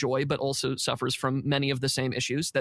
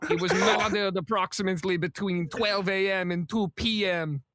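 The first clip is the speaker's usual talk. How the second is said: put-on slipping French accent. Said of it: "It's slowly turning into Schwarzenegger".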